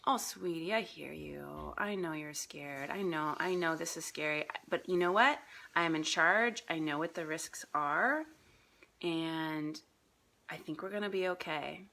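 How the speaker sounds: the wise self calming the gremlin; wise soothing voice. Retold or imitated. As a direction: gently comfort a scared child. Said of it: "the wise voice says".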